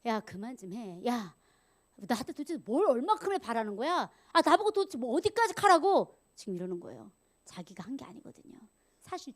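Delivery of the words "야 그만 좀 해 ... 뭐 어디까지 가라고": fed-up anger. Acted. Moses fed up with the people's demands, angry. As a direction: act out a leader losing patience. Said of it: "근데 이 지도자가 화가 난 거예요".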